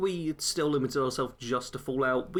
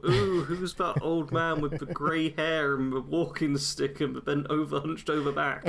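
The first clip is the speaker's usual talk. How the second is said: gossiping passerby; 3 semitones higher than usual. Retold or imitated. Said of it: "People look at me in the street and go".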